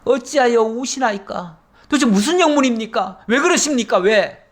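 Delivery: a servant alarmed by his master's tears; bewildered pleading. Acted. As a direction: press him anxiously for an answer. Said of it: "이렇게 얘기하는 거죠".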